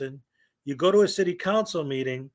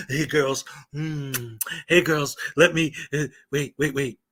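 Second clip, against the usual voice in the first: creepy auditor; 4 semitones lower than usual. Acted. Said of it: "This is how you do it".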